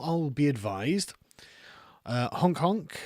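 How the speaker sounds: joking whispered aside. Real, not acted. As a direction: drop to a secretive whisper.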